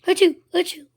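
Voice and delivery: two loud sneezes. A narrator's reading. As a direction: sneeze it out twice. Sneezing continues.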